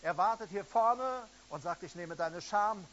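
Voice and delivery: preacher calling the crowd forward; fervent altar call. Acted. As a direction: urge them to come to the front. Altar call, urging people forward.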